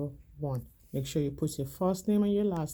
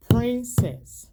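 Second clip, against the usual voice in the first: syllable-count demo; 6 semitones higher, 8 dB louder than usual. Shown as a demonstration. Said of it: "How many syllable can you hear".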